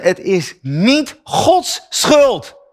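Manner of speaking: drawn-out, crying words, very slow; choked up. Real, not acted. Preacher speaking of his wife's death, slow and tearful. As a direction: let the grief break through each word. Widower's grief in sermon.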